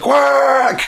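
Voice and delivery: high, squawking mock quack; imitated bird quack. Podcaster voicing the angry bird, loud high quack. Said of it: "And he's like".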